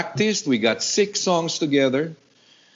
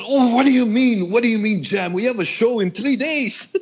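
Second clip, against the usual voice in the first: incredulous; 11 semitones higher than usual. Retold or imitated. Friend told to jam days before show, incredulous. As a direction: play the friend's alarmed disbelief. Manny retold, alarmed at jam request.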